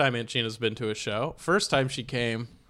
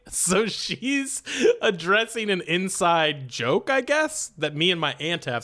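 talking through laughter, higher; laughing; 6 semitones higher, slower than usual. Real, not acted. Comedian explains the inside joke while laughing.

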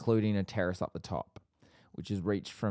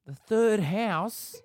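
high, slow disbelief; incredulous; 12 semitones higher, 5 dB louder, much slower than usual. Real, not acted. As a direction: gasp it out in disbelief. Incredulous at third house.

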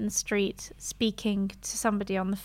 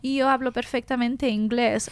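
quoted in Spanish with Spanish pronunciation; Spanish boyfriend's boast. Retold or imitated. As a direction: imitate a confident Spanish speaker boasting. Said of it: "he moved here being like".

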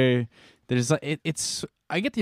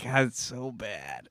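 cringing aside; 8 dB quieter, slower than usual. Retold or imitated. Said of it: "I'm sitting there just cringing".

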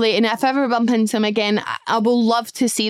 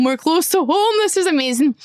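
higher, rising excited exclamation; retold excitement; 6 semitones higher than usual. Telling the girls home is near, excitedly re-enacted. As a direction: re-enact delighted relief, pitched up.

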